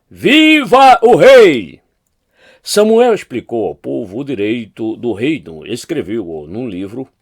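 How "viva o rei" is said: high, loud, drawn-out cheer; crowd's acclaiming shout. A narrator's reading. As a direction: shout it slowly, stretching each word to hail the king. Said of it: "todo o povo começou a gritar".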